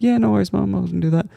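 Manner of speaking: put-on eager kid reply. Kid answering mum, high eager mock compliance. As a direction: chirp it like a keen kid.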